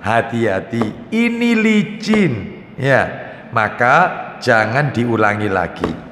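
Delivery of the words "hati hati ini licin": slow, gentle mock mother warning a child; mother's warning. Mother gently warning her fallen child, slow and soothing. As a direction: stretch it out like a mum cautioning her toddler. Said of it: "mama bilang apa?".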